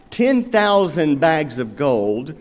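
ten thousand bags of gold, slowed and weighted on ten; slow emphasis. Shown as a demonstration. Pastor repeating the huge debt to the congregation, slow and weighty. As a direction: let the sum sink in slowly. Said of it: "repeats phrase for emphasis".

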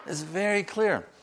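high imitation of a Nigerian accent; attempted Nigerian accent. Nigerian priest insisting to the preacher, in an attempted high accent. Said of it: "I can't do his accent".

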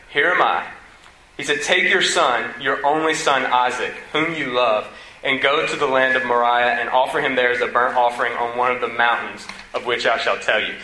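solemn scripture read. Acted. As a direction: read the verses with weight. Reads scripture aloud.

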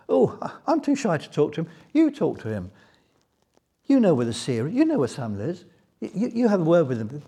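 mildly hammed-up bashful young women; flustered young girls. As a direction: play the shy girls pushing each other forward.

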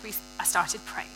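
soft unvoiced murmur; under my breath. Real, not acted. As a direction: whisper it, like a private prayer. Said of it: "under my breath".

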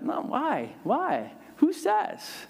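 put-on rising high, protesting child; kid protesting. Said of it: "And I'm like".

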